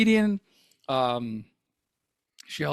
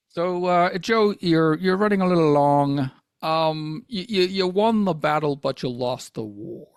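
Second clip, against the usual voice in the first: Lorne Michaels impression; 2 semitones lower than usual. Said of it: "that was my Lorne Michaels or my Jimmy Stewart".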